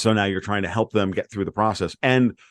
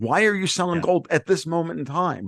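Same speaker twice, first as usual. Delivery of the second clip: put-on screaming, pitched higher; 7 semitones higher than usual. Retelling screaming at a quote screen as gold fell: imitating own screaming. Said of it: "I'm literally screaming at my quote screen going".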